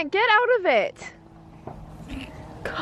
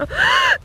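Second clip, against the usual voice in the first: gasp. Real, not acted. Startled by fireworks.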